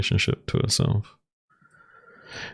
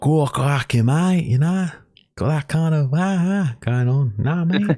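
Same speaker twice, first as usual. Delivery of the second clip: much higher, hammed-up Australian accent; Aussie impression; 11 semitones higher, 3 dB louder than usual. Teasing his co-host by imitating him in a high mock Australian accent. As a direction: overdo a stereotypical Australian bloke. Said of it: "you sound more like".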